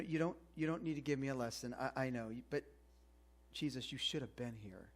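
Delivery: hurt reproach. Retold or imitated. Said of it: "she's thinking".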